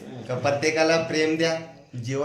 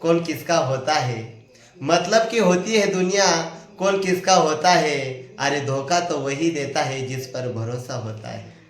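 reciting a sher. Shown as a demonstration. Friend recites a sher to the viewers, poetic recital. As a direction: deliver the Hindi couplet like a poem. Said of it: "एक शेर सांगतो की".

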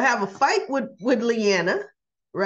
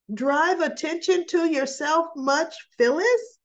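a higher, sneering aside that mocks her; mock sarcasm; 5 semitones higher than usual. The daughter mocking Phyllis for drawing attention, sarcastic. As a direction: roll your eyes at her showing off.

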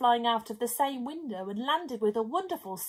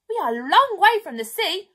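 loud, higher call up to the window; calling back; 5 semitones higher, 10 dB louder than usual. Acted. Narrator calls up to the pelican, loud. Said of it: "I called back to him".

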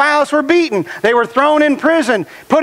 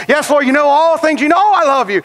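insist, a little hurt at being asked again; mildly acted pleading protest; earnest protest. Peter's grieved third answer.

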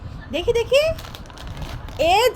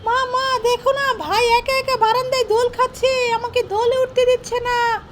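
put-on whiny child; 5 semitones higher than usual. Child complains to mother.

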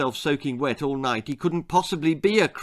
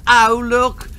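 exclaiming; 7 semitones higher, 8 dB louder than usual. Acted. Pointing at the fire.

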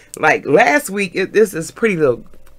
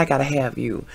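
low, soft imitation of his murmur; whispered come-on; 5 semitones lower, 7 dB quieter than usual. Dancer to the woman he wants, whispered come-on. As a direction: quote him quietly, dropped in pitch. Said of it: "He whispered, he said".

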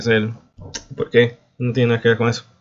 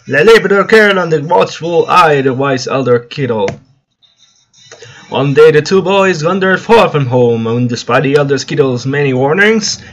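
animated storybook reading, a touch louder; lively fairy-tale narrator with lilting emphasis; story narration; 3 semitones higher, 5 dB louder than usual. A narrator's reading. Streamer reading the game's storybook intro, animated story narration.

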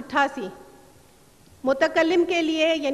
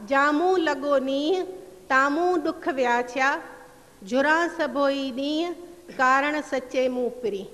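verse recitation. Acted. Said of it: "Sindhi میں ہوگا".

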